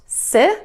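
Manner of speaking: "si-" as a short, isolated first syllable. Shown as a demonstration. Teacher breaks down the word, short "si-" syllable. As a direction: say "si-" briefly by itself. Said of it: "saying this little short syllable".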